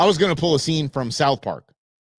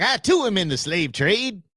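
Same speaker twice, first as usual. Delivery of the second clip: higher, lightly put-on Southern voice; mock Southern accent; 5 semitones higher than usual. Cartoon character introducing himself to the athletic department, mock Southern accent. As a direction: imitate a Southern gentleman's accent. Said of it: "he's talking in a Southern accent".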